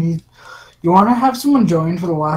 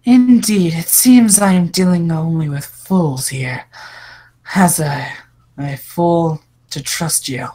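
evil woman voice; 2 semitones lower than usual. Acted. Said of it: "let me just randomly come up with a voice".

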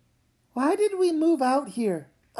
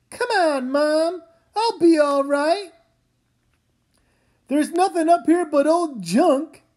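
calling down; 4 dB louder than usual. Acted. Calling down from the attic.

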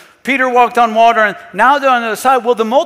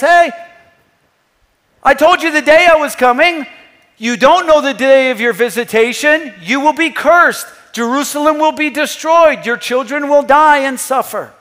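higher-pitched, forceful warning; raised voice, acting out a solemn rebuke; stern pronouncement; 3 semitones higher, 4 dB louder than usual. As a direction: deliver judgment like a prophet. Jesus pronouncing judgment on Jerusalem.

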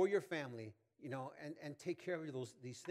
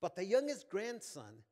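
story read aloud; 3 semitones higher, 4 dB louder than usual. A narrator's reading. Reads an illustration story aloud.

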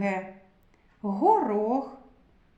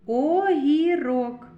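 slow dictation; 3 semitones higher, 4 dB louder, slower than usual. Shown as a demonstration. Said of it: "Слово огірок".

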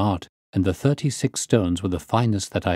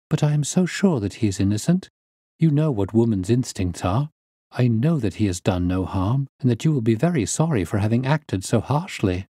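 lightly voiced pleading niece; 2 semitones higher than usual. Niece begging her uncle to believe Arthur innocent, lightly pleading.

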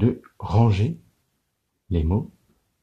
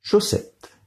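whispered word; 11 semitones higher than usual. Shown as a demonstration. Teacher to pupils, whispered Chaussette. Counting syllables for children.

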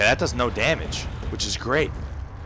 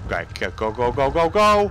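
urgent urging. Real, not acted. Urging self to flee.

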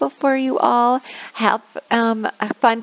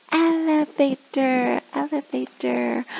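slow, higher word modelling; teacher modelling; 6 semitones higher, slower than usual. Shown as a demonstration. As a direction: teach the new word clearly. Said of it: "Let's learn a new word".

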